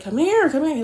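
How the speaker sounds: impatient calling. Retold or imitated. Boyfriend calling her upstairs, a hammed-up impatient call.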